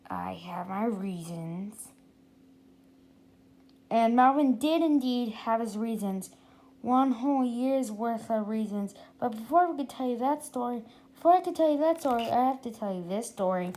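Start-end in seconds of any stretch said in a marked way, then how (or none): 0.1-1.9 sly and secretive. Acted. Sly Melvin repeat. 11.1-12.3 rushed. Real, not acted. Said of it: "self-correction fast".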